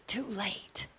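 quick hushed whisper back; whispered comeback. Retold or imitated. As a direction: answer with no voice. Whispered reply at the door.

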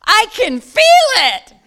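high, loud cry of joy; shout. Retold or imitated. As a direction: shout it out in wonder. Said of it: "and I shout".

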